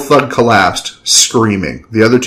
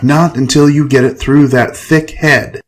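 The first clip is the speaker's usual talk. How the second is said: higher, slow, insistent scolding; yelled back; 6 semitones higher than usual. Acted. Ava poking Enrique's skull, insistent yell. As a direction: drum it into him angrily. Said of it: "Ava yelled back".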